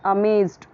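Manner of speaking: "अमेज्ड" with a Z sound; "अमेज्ड" with Z before the final stop; correct pronunciation of amazed. Shown as a demonstration. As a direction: say "अमेज्ड" as uh-MAYZD. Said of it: "वो wrong हो जाएगा".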